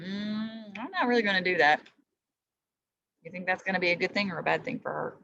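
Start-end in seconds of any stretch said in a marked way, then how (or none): 0.0-1.8 sly inner thought. Retold or imitated. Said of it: "thinking in her mind".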